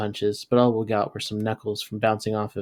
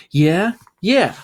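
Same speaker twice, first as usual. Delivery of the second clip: high, loud challenge yelled back and forth; rising then falling football taunt; taunting shouts; 8 semitones higher, 7 dB louder than usual. Acted. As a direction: bark it like a dare on the field. Helmet-butting football challenge.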